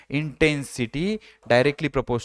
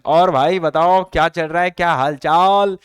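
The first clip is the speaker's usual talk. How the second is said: a friendly, casual greeting between pals; casual chat; 5 dB louder than usual. Shown as a demonstration. Teacher demos a sixty dB normal conversation as a casual greeting. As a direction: chat it out like meeting a buddy on the street. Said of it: "normal conversation".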